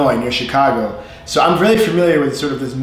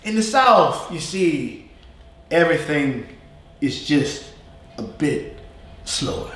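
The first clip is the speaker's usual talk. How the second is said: slow Southern drawl, long gaps between phrases; Southern accent; slower than usual. Shown as a demonstration. Teacher showing how the South talks, slow Southern drawl. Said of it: "when you talk Southern".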